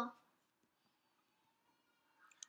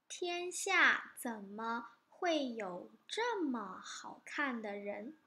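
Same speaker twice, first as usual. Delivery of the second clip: slow admiring; slower than usual. Acted. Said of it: "他在做什么？".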